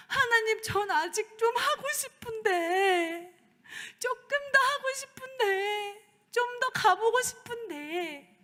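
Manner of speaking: high, slow pleading through tears; tearful plea. Retold or imitated. Pastor retelling her tearful plea to God, high and slow. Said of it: "울면서 하나님한테 얘기했어요".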